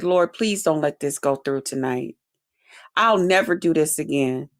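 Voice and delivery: low, softened pleading prayer; praying. Retold or imitated. Woman praying in the shower to get through tonight, low prayer. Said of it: "I was in there praying".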